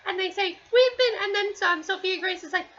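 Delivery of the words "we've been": imitated shouting. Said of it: "we see them shouting".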